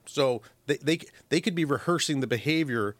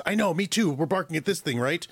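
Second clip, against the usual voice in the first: a lightly voiced eager dog agreeing; playing the dog; 3 semitones higher than usual. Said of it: "And the dog goes".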